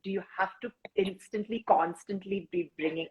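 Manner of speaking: put-on a light, half-hearted South Asian accent, scolding; lightly mock a South Asian friend calling her out in a South Asian accent; understated South Asian accent, teasing complaint. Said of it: "I can hear a South Asian character going".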